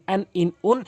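আন, ইন, উন said short; quick short reading. Shown as a demonstration. Teacher showing how tanween is read, quick আন, ইন, উন. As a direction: keep each n of আন, ইন, উন brief. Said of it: "দ্রুত পড়তে হয়".

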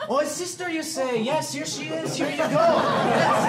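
hammed-up Scottish phone voice; Argyle McCulloch. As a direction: answer as a comic Scotsman. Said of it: "Argyle McCulloch might have put a big fat Scottish".

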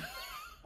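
a sharp high burst of laughter; sudden high laugh. Real, not acted. Recalling the Nigeria fight, with a short high laugh. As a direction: laugh out at how angry you were.

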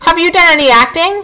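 a boastful little possum showing off. Acted. Possum boasting to the robot about playing dead, lightly voiced.

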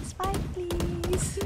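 high cutesy pleading voice; girly voice. Pretend. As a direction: beg sweetly in a girly voice. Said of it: "I might use my very girly voice".

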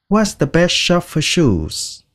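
very slow, word by word; slow model sentence. Shown as a demonstration. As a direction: spell it out slowly for beginners. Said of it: "shoes là giày". (đọc câu rất chậm)

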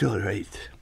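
unvoiced whisper on "all right". Host mocks radio gloss over answers, whispering.

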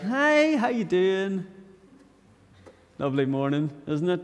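sing-song greeting starting high; outwardly cheery. Acted. Preacher acting the outward greeting that hides frustration, falsely cheery. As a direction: put on a pleasant front, high "Hi". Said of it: "outwardly you're like".

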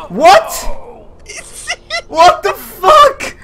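very high, very loud disbelief; shocked yelling. Real, not acted. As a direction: scream it out in startled disbelief. Startled outburst during the game.

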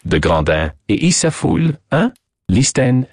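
put-on French-accented self-reproach. Detective reacts to the cablegram, French-accented. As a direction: talk like a French sleuth.

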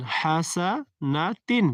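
very slow "হাসানাতিন", air released on a throat-pressed "হা"; breathy pressed ha. Shown as a demonstration. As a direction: stretch "হাসানাতিন" in separate parts, breath pushed through "হা". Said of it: "গলার উপরে চাপ দিয়ে এবং বাতাস ছেড়ে".

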